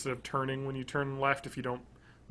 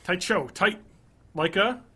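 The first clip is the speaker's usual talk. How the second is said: put-on Boston accent; 4 semitones higher, 3 dB louder than usual. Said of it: "Whoa, what was that? Is that Boston?".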